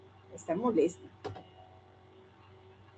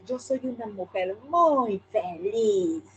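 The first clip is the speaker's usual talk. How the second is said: a bit annoyed; 2 semitones higher, slower than usual. Shown as a demonstration. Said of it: "Un poco molesta".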